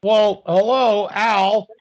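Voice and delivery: mock hello. Mock greeting to mobster Al.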